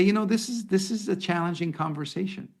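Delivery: a kind, understanding tone; empathetic statement. Shown as a demonstration. Manager showing empathy to an upset employee, kindly. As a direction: acknowledge their feelings gently. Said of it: "here's an empathetic statement".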